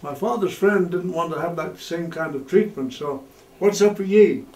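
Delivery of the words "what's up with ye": put-on Yorkshire accent. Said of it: "In a very broad Yorkshire accent".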